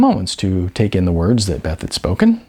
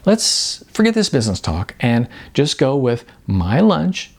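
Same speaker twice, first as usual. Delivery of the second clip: higher, brisk and candid agent's voice; blunt talent agent; 4 semitones higher than usual. Acted. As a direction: sell the hard truth with sugary frankness. Beth turns friendly.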